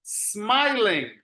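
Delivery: smiling drawn out, pitch arching then falling; smiling stretched, with a clear -ing; model for repetition. Shown as a demonstration. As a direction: say smiling slowly for the class to echo. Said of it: "let me hear you".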